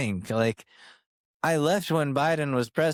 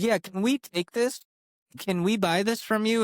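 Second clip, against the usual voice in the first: higher, eager voice asking to buy it; eager coworkers; 9 semitones higher than usual. Retold or imitated. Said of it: "They're like".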